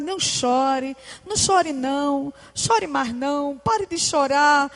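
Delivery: quiet, gentle soothing words; soft consoling. Retold or imitated. People soothing someone crying, softly consoling. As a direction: murmur it like stroking a crying head. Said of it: "A gente diz pra essas pessoas".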